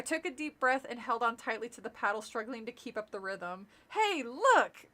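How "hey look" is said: quick high call, louder; sudden cry. Acted. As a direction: blurt it out, pointing. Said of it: "Larry cried suddenly".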